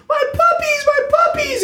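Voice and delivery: very high, loud falsetto wail, imitated; mock screaming. Storyteller imitating the frantic puppy owner, mock screaming. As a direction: imitate a panicked shriek far above your voice. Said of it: "screaming about his puppies".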